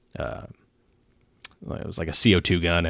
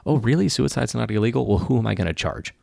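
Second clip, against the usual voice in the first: much higher, louder incredulous mockery; mock disbelief; 6 semitones higher, 3 dB louder than usual. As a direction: parody a skeptic who can't believe it. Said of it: "people always".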